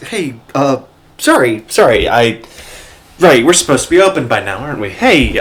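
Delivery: startled barkeep covering up, hurried; flustered, startled. Acted. Bats caught crying, startled by the knight, flustered. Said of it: "Bats is gonna jump and go".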